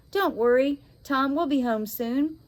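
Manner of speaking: out of breath, panting. Acted. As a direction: speak while running out of breath. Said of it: "she said, panting".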